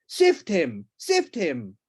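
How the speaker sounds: loud barked order; furious command. Acted. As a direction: demand it in a rage. The Duke raging at his wife.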